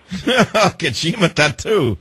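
laugh, then echo "Kajima tattoo" high and very drawn out; "Kajima tattoo" slowly mimicked in Gaelic, amused; playful Gaelic imitation. Host echoes caller's Gaelic phrase.

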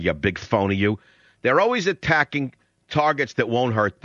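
tearing into the guest he just cut off; angry rant. Real, not acted. Host cuts off the clip and berates the guest, real angry rant. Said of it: "See, I'm doing it while I'm saying 'em".

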